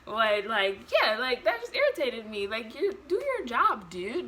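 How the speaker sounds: worked-up griping, pushing the volume; real irritation. Real, not acted. Mother venting about the nurse's job, irritated. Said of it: "because I'm getting irritated".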